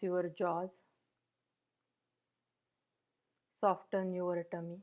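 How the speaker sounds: even, unhurried meditation guidance with long pauses; guided meditation. Real, not acted. Meditation teacher settling the group into posture and breath, guided meditation. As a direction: gently guide listeners through settling the body, leaving space between phrases.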